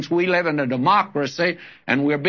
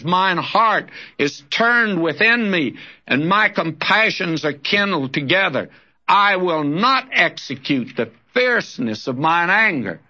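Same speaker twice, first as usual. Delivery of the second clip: solemn scripture reading, slightly raised; God's words read aloud. Acted. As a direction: read it as God pleading with his people.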